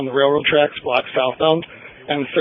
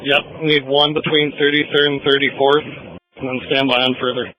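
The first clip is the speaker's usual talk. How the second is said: police radio. Real, not acted. Whole scanner recording is radio chatter.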